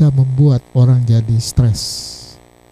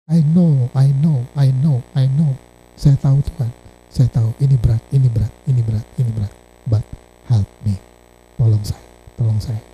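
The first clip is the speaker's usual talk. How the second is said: burdened prayer; 4 semitones lower, 4 dB quieter than usual. Acted.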